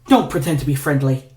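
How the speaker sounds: snapped. Acted. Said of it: "Norman snapped".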